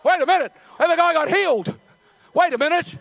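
astonished, hopeful outburst; excited realisation. Acted. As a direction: let the realisation hit you loudly. Blind man realising, growing excited.

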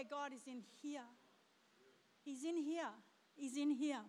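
softly intimate emphasis; quiet. Acted. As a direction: drop to a hushed intimate tone. Drops voice on repeat.

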